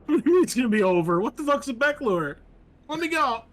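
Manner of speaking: fast, high, loud frightened babble; freaking out, begging to be freed; panicked captive. Acted. Captive panics as the cultist promises it'll be over.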